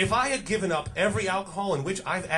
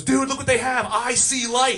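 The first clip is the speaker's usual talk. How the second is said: excited friend; 6 semitones higher than usual. Retold or imitated.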